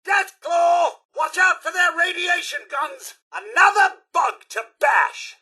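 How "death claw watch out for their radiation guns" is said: higher, alarmed call; urgent warning. Acted. Butler warns master of a deathclaw, raised urgent cry. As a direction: sound the alarm at a monster.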